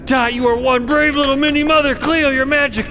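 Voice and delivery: high, gushing elation; shower everyone with giddy praise; relieved, semi-hysterical. Acted. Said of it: "bursting into relieved, semi-hysterical laughter".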